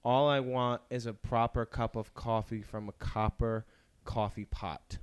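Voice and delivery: slow, careful tongue-twister delivery; lightly done Natalie Portman line. Shown as a demonstration. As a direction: enunciate each word slowly. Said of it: "one that I learned from Natalie Portman".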